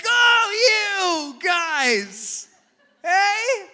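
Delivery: loud high laughing cheer; cheerleader whoop. Pretend. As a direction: cheer them on like a fan. Cheerleading a couple.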